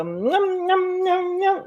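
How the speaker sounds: high playful nom nom; imitating Coco eating. Mimicking Coco's mukbang noises, high and playful. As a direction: chomp the noms up high. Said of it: "And she go".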